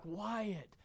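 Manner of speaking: a touch of soothing dad; calm a toddler as a loving father; gentle father. Retold or imitated. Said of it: "I'm a loving father".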